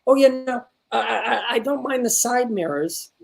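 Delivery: lightly voiced, tentative sitcom line; imitating student's delivery. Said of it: "The way she said the line".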